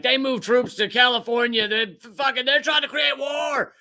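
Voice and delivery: high, shouting mock panic; hammed-up alarmed outburst. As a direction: cry it like a panicked pundit. Mocking alarmed foreign countries.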